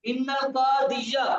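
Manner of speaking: slow "इन्नल का दिया" with the final "-ya" sounded; teacher demonstrating the "-ya" ending on "दिया"; fatha ending pronounced. Shown as a demonstration. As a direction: draw out "का दिया", ending on an audible "a". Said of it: "ये फतह लफ्जी है पढ़ने में आएगा".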